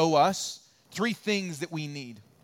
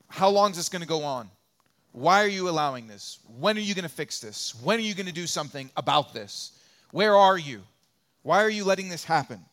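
urgent, louder pleading questions, faster at times; pleading outcry; 4 dB louder than usual. Retold or imitated. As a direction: cry out to God, demanding answers. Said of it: "Habakkuk is crying out to God saying".

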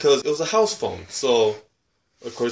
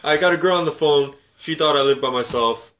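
put-on exasperated teen; 2 semitones higher than usual. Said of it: "It's like".

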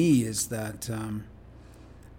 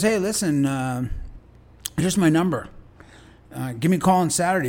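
imitating Ron, friendly; 3 semitones higher than usual. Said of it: "He goes".

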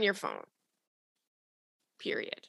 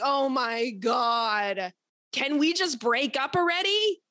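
exasperated; slower than usual. Retold or imitated. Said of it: "I'm like".

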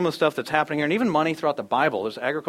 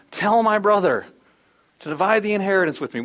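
yelling from crowd; 5 semitones higher, 4 dB louder than usual. Acted. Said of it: "somebody yells out".

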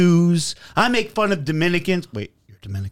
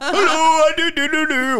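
lightly put-on Indian accent, pitched high; a quick mock Indian accent; 12 semitones higher than usual. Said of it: "where I did an Indian accent".

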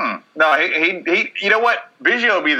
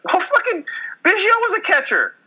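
much higher, laughing through the words. Real, not acted. Laughing while shooting down the Ausmus argument. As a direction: laugh out the obvious comeback.

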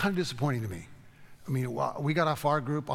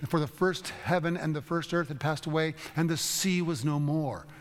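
a touch of a priest's solemn emotion, slowing on the last words; emotional priest quote; 3 semitones higher than usual. Retold or imitated. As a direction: quote the priest with restrained feeling. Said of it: "he's got the great emotion in his voice".

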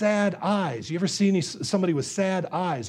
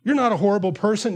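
higher, soothing mock reassurance; encouraging; 3 semitones higher than usual. Preacher as friend consoling David, higher encouraging voice. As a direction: play the well-meaning friend consoling him. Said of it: "you intend by saying those things to encourage him".

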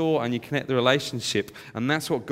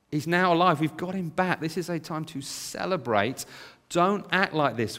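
pleading father; 3 semitones higher, slower than usual. Retold or imitated. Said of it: "he pleads and he begs with his son".

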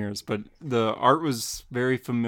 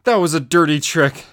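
loud indignant laugh; 4 semitones higher, 8 dB louder than usual. Acted. Robin after flying backwards.

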